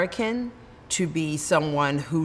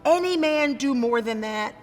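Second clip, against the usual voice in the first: steady, weighty public address; speech recitation. Acted. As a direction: deliver it to a hostile convention hall. Recites Sojourner Truth's speech.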